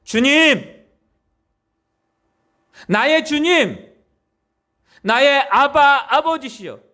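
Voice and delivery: slow, drawn-out cry to the Lord; earnest prayerful calling. Shown as a demonstration. Preacher demonstrating calling on God, slow and pleading. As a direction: call out slowly as a longing prayer. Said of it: "제발 부르세요".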